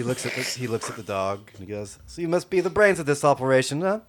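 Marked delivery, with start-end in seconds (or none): 2.1-4.0 high, loud urchin voice fawning over the dog; cheeky urchin sweet-talking a giant dog; street kid voice. Acted. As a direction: coo at the big dog like a scrappy street kid.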